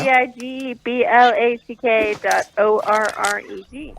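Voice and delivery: dictating. Real, not acted. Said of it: "Can you read it back".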